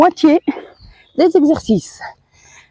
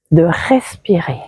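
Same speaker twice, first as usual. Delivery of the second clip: whispered; 8 semitones lower than usual. Shown as a demonstration. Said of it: "unvoiced whisper while coaching breath".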